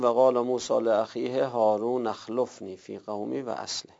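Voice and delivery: و قال موسی لاخیه هارون اخلفنی read linked, hamza dropped; connected reading. Shown as a demonstration.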